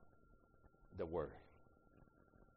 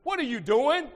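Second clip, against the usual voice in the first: mock bafflement; 10 semitones higher, 9 dB louder than usual. Mocking reaction to tongues.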